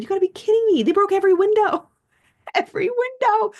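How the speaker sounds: high, loud, fast incredulous laugh-talk; laughing disbelief. Retold or imitated. Telling how thieves broke every window, laughing and high.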